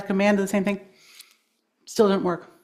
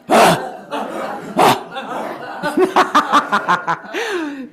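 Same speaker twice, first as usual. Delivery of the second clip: grunt then laughing; 6 semitones higher than usual. Shown as a demonstration. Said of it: "finish with a grunt".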